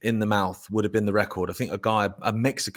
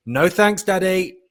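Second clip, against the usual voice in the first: put-on higher sing-song little girl; child's voice; 9 semitones higher, 5 dB louder, slower than usual. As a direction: call down like a cheeky little girl. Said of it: "all I heard from the floor upstairs".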